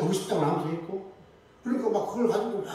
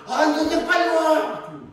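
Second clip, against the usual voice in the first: higher, louder, slow hurrying call; 9 semitones higher, 6 dB louder, slower than usual. Retold or imitated. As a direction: call her over from up ahead, impatient. Elder calling her to hurry. (재촉하며 크게 부르는 목소리)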